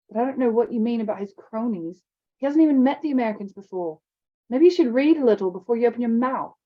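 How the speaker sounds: lightly voiced James, bristling; a touch of an angry schoolboy; indignant boy. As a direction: push back at the bully. James retorting, cheeks red.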